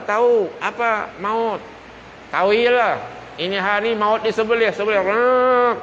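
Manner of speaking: high, loud, agitated answer with a growled rrrr; people of hell answering. Acted. The people of hell answering the angel, high and loud.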